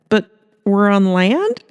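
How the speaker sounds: slow, puzzled question; baffled reporter; confused Hannah. Acted.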